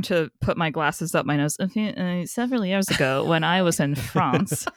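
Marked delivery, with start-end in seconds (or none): 3.9-4.7 "France" drawn out as "Frahnce"; affected Frenchified "France"; mock-French pronunciation. Showing off French pronunciation for laughs.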